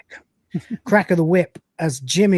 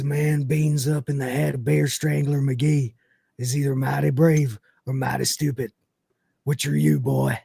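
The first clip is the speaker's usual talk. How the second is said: lightly voiced hard man's threat; a slow, measured challenge in a hint of Scots; big Scottish brawler. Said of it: "I feel like I based him on this".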